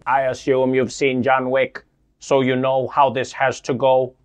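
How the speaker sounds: put-on old speech synthesizer. Alien threatening.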